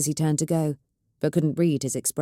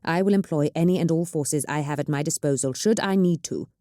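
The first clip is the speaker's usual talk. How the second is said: lightly voiced governor, laying down the law; a hint of a ruler warning the nobles; firm governor. Governor voiced in read story.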